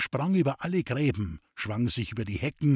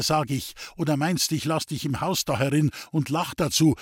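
urgent; 2 semitones higher than usual. Acted. Roman urgently orders them out.

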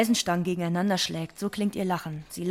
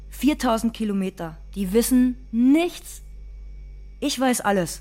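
bitter outburst; 4 semitones higher, 3 dB louder than usual. Acted. Bitter outburst about distant sisters.

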